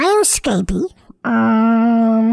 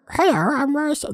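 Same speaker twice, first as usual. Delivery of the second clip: failed funny voice; 3 dB quieter, faster than usual. Retold or imitated. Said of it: "he had a funny voice".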